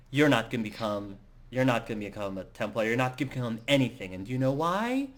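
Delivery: mildly acted irritated tirade; a touch of exasperation, rattled out. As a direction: tell them off, mildly heated. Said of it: "very irritated".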